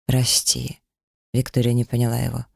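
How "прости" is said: hoarse. A narrator's reading. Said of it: "он хриплым голосом произнёс".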